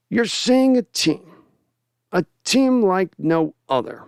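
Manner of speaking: slow, measured announcer drift; lightly voiced eerie narrator, slow; Twilight Zone narrator impression. Streamer trying the Twilight Zone host for chat, slow. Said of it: "Do the Twilight Zone guy impression".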